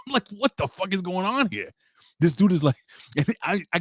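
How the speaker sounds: high voice breaking up with laughter; laughing disbelief. Real, not acted. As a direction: squeal it out through real laughter. Laughing while retelling own reaction.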